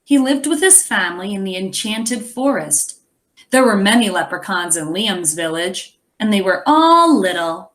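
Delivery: put-on lively read-aloud to children; story narration. A narrator's reading. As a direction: tell the story to the class, expressive. Reads the picture book aloud.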